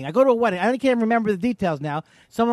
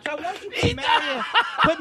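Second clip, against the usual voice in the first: mock whining; 7 semitones higher than usual. Mock whiny plea to Todd.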